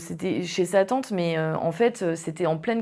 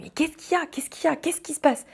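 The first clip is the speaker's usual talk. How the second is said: put-on worried boyfriend; 8 semitones higher than usual. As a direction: lightly act out his anxious questions. Boyfriend asks why she cries.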